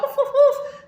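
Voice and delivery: high yappy little dog barks, laughing; barking dog. Retold or imitated. Mocking a dog lover with high, loud yapping. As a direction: yap like a tiny dog through laughter.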